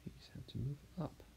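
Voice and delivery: hushed repeat to herself; whisper. Real, not acted. Artist drawing, whispering a note to herself. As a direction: whisper it under the breath. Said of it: "whispered repeat".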